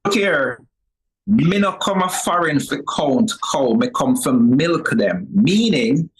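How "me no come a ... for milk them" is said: Jamaican Patois. Shown as a demonstration. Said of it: "as a Jamaican".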